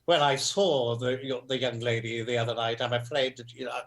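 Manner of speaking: a light stab at a pompous theatrical actor; understated luvvie delivery; thespian mode. Retold or imitated. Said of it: "I went into my thespian mode".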